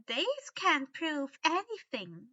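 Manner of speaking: slow, firm elf voice; reminding elf. A narrator's reading. Winky reminds Dobby, slow firm elf voice. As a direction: remind him coolly. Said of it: "Winky reminded him".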